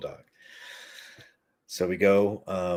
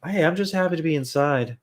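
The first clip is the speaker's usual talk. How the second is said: higher, lighter voice for a happy dog; high, sweet dog voice, pleased to be inside; content dog voice; 9 semitones higher, 6 dB louder than usual. Retold or imitated. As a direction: sing it out like a dog glad to be indoors. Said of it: "he's mostly like".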